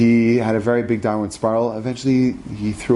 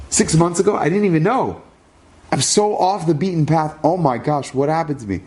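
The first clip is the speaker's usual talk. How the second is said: higher, anguished disbelief; stunned grief; 6 semitones higher than usual. Retold or imitated. Son hearing of his father's death, voice rising in anguish. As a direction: cry out as the news sinks in.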